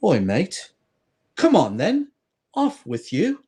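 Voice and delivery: a light cockney-ish English voice; playful English accent; mock English accent. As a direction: shoo the fly off, lightly English. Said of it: "The Englishman says".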